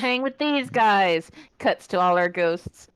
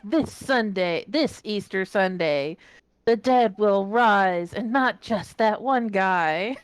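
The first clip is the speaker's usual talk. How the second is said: announcer voice; slower than usual. Retold or imitated. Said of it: "I wish I had a good announcer voice for it".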